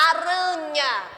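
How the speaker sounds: aranha said slowly, split into syllables; teacher counting the syllables in aranha. Shown as a demonstration. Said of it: "Por exemplo".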